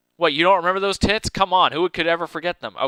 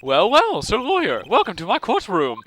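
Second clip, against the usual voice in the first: smug villain; 4 semitones higher than usual. Acted. Voicing smug villain greeting.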